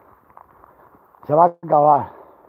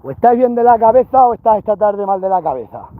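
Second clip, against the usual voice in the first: exasperated scolding of the herd; 3 semitones higher, 4 dB louder than usual. Real, not acted. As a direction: tell the animals off, fed up. Shepherd scolding cows.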